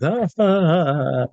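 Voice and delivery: slow, drawn-out mock laugh; imitated laughter. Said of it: "laughing and all".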